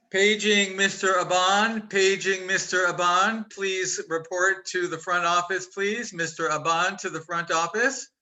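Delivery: intercom announcer voice; flat echoey pa page. Pretend. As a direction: page him like over a PA. Mock PA page to late guest.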